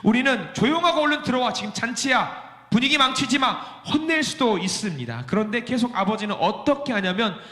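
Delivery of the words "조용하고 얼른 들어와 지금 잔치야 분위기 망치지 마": mock scolding father. Father voiced scolding son.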